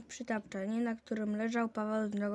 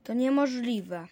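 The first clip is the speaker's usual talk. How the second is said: louder, indignant denial; loud protest; 7 dB louder than usual. Acted. Boy protests the tree being taken away, loud indignant denial. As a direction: refuse to believe it out loud. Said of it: "zawołał".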